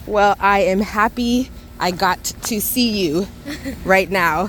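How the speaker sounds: cheerful greeting. Real, not acted. Greeting someone met on the street.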